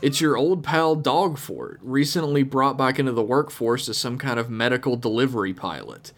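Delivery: a hint of a grizzled old-timer; old prospector. Reads cowboy pilot's email.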